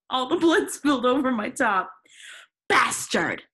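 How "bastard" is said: louder hammed-up snap of the insult; mock angry shout. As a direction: fling the insult in mock anger. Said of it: "I shouted angrily".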